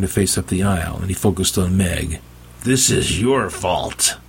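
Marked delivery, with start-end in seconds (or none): 2.6-4.2 menacing blame. Acted. Preacher blaming Meg.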